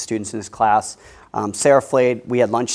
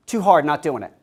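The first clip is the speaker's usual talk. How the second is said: put-on defiant child; 3 semitones higher, 4 dB louder than usual. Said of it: "this precocious six-year-old says".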